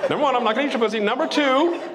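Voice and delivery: giggling through the line; can't keep a straight face; laughing. Real, not acted. Repeats the rule, laughing.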